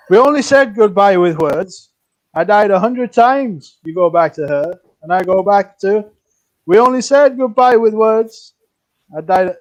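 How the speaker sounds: shaky attempt at singsong Welsh; attempted Welsh accent. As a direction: sing it in a badly faked Welsh accent. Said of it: "that's my best Welsh accent".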